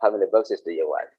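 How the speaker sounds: flat, quick, matter-of-fact ask; teacher shows the blunt way to ask customers, brisk and plain; blunt plain question. Shown as a demonstration. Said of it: "this is so different".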